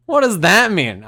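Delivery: high, loud incredulous question; loud, baffled demand; retold indignant bafflement. Retold baffled reaction to remark.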